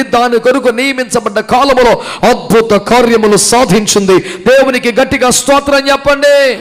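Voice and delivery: loud, ringing pulpit preaching; fervent Telugu sermon delivery; preaching at full force. Acted. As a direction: preach it out hard to the whole hall.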